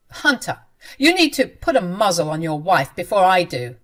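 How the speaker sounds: threatening anger. Acted. Mother-in-law threatens.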